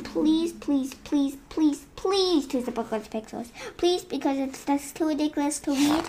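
begging. Acted. Begging not to read again.

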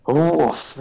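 dog pronouncing woof; spoken woof. Retold or imitated. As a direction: say woof as a word. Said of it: "he just goes".

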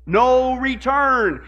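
"No return" stretched slow with weight on "No"; preacher landing the answer "No return" slow and heavy; slow emphasis. Acted. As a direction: drag out "No return" and lean on "No". Fill-in quote answer.

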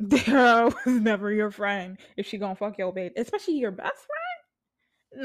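laughing through the line. Real, not acted. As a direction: laugh while saying it. Repeats it laughing.

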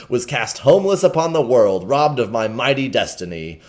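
a mild mock rant from a bitter monk; an understated furious old hermit; angry energy. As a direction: let the old monk's grievance boil over. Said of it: "with an angry energy".

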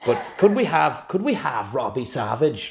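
a hint of a put-on Welsh accent; mock Welsh accent. The speaker asking about Robbie Savage, light Welsh accent. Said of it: "doing the accent".

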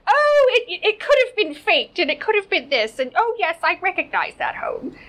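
high, loud mock protest; mock flustered brother. Host mimics brother caught out over the photo, mock flustered. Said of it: "He was like".

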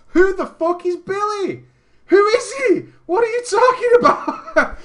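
mock outrage. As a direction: splutter in fake outrage at a stranger's name. Outraged rant, loud high.

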